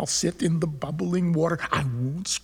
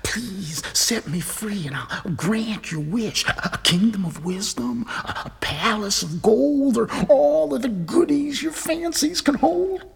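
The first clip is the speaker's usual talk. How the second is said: pleading fish; 4 semitones higher than usual. Acted. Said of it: "he spoke to me".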